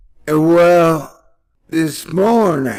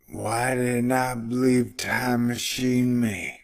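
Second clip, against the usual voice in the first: ordinary talk, nothing marked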